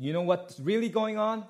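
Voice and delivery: high, coaxing tempter; sly serpent. Retold or imitated. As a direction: lean in and tempt her. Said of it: "So he's like".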